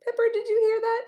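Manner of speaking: playful whisper to the dog. Real, not acted. Whispering to her dog Pepper on her lap.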